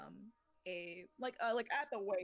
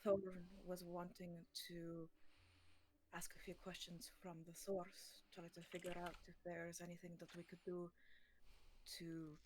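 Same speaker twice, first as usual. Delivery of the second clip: reverent hushed voice; 4 semitones lower, 8 dB quieter than usual. Acted. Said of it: "I'm nervous now".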